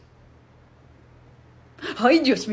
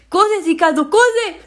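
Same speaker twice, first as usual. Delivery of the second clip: cheering him on, rising and louder; urgent yell; 4 semitones higher, 3 dB louder, much slower than usual. Acted. Mother urging her fleeing son, an excited call. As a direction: urge him to run, voice climbing.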